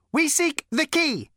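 ancient robot with a cultured rasp; cold, sleek machine voice; cold lifeless robot. A narrator's reading. Robot's character voice.

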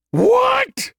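sudden very high yelp of surprise; startled what. Acted. Skippy jolted awake by the shock, startled high yelp. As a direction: jolt awake and squeak it out.

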